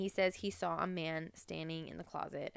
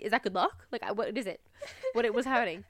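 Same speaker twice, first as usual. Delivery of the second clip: laughing mock panic; 2 semitones higher, 4 dB louder, faster than usual. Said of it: "I'd be like".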